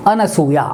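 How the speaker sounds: अनसूया said slowly as a-na-su-ya, no extra u; अनसूया, clear and deliberate, stress on सू; correct pronunciation. Shown as a demonstration. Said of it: "ये शब्द शुद्ध है". (अनसूया साफ़ और धीरे बोलें)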